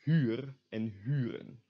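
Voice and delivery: "huur" and "huren" with long front rounded u; tense U. Shown as a demonstration. Teacher reads example words, tense rounded u in "huur" and "huren". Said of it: "these words will be pronounced".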